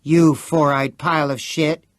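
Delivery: crying out. A narrator's reading. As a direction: yell it at your cheating friend. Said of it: "Chris cried".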